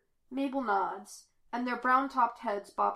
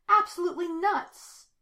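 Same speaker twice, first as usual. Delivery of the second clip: high, loud, frantic cry; furious shout; 9 semitones higher, 9 dB louder than usual. A narrator's reading. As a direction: yell it, thoroughly worked up. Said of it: "he shouts".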